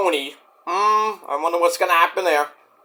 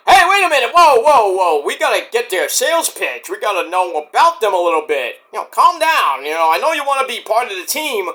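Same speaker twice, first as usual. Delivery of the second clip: urgent interjection. Retold or imitated. Wrestler halting a teammate's promise, urgent interjection. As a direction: jump in to stall, easing off after the outburst. Retelling Charlie cutting in.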